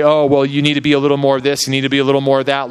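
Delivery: rattled off quickly like a nagging lie; fast, dismissive whisper of doubt; mocking lie voice. Pastor voicing the lie that says he lacks, quick and mocking. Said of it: "a lie tries to come in and say".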